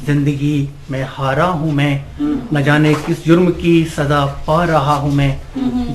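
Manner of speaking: measured Urdu verse recitation; poem recitation. Acted. Amateur poet to a gathering, reciting his nazm.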